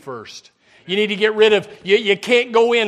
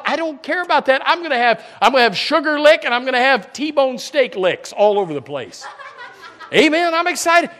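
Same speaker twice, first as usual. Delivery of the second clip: laughing through the words; chuckling with delight at the joke; 4 semitones higher than usual. Real, not acted. Pastor joking to the church about steak licks in heaven, laughing.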